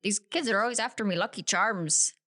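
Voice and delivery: amateur Irish accent. Shown as a demonstration. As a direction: try a playful Lucky Charms Irish lilt. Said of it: "Can you say with an Irish accent?".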